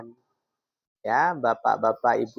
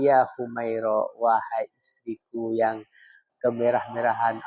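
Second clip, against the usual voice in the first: lemah lembut; 2 semitones lower than usual. Retold or imitated. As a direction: call your wife tenderly, without pushing. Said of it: "dan intonasinya lemah lembut". (memanggil istri dengan lembut)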